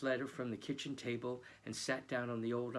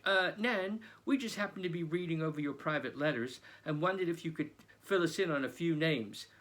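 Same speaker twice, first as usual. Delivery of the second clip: a sheepish pretend plea, higher and louder; mock polite; 5 semitones higher, 4 dB louder than usual. Boy mocking how they'd ask Nan about her letters, sheepish. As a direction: put on an innocent, awkward ask.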